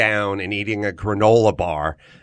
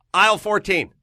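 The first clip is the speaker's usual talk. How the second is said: higher, knowing aside; smug helpful reply; 9 semitones higher than usual. Retold or imitated. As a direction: toss it off like a pro. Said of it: "and I'd go".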